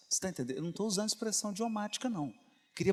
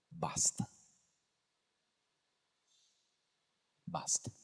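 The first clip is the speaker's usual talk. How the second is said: quiet command; 2 semitones lower, 6 dB quieter than usual. Acted. Mother calms her son.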